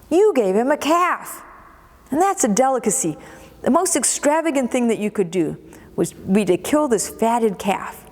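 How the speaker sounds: lightly acted resentment over the calf; mock indignant son. Elder son to father about the calf, mildly indignant.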